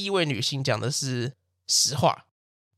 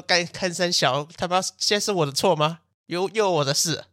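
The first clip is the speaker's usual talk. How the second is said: exasperated grumble; 4 semitones higher than usual. Retold or imitated. Narrator's annoyed inner thought.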